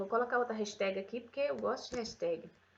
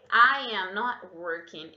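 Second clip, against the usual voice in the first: slowed, louder repetition; slow correct model; 2 semitones lower, 6 dB louder, slower than usual. Shown as a demonstration. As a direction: repeat the right form for the class. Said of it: "Isso daqui vai ser o correto". (repetição lenta da frase correta)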